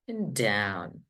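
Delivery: DOWN dropped low and soft; falling tune on DOWN. Shown as a demonstration. Teacher showing voice going down, pitch falls on DOWN. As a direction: let DOWN slide to a low pitch.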